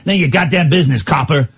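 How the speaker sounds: lightly voiced American mobster; improvised gangster. Caller greets host, who answers as a mock gangster. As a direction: brush off the police like a movie mobster.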